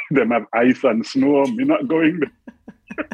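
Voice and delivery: imitated Jamaican auntie, slow and rising; auntie's refusal. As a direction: play the auntie turning it down in patois. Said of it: "And my auntie went".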